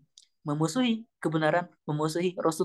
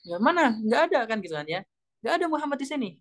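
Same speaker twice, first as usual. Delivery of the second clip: humiliated anger; 6 semitones higher than usual. Retold or imitated. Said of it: "dia merasa terhina dong".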